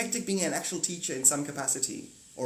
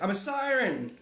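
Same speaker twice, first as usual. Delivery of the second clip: siren; 7 semitones higher, 6 dB louder than usual. Retold or imitated. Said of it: "and you're like".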